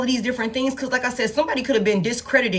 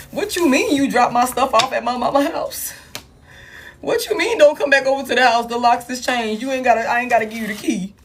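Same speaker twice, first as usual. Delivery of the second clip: raised, pushy demanding voice; hammed-up retort from the ex; mocking the partner; 3 semitones higher than usual. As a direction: throw the partner's complaints back, mock-accusing. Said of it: "They like".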